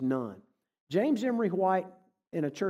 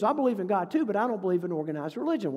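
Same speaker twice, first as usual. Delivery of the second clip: mildly indignant retold protest, louder; a little indignant; 3 semitones higher, 3 dB louder, faster than usual. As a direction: push back, slightly affronted. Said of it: "she's a little more indignant".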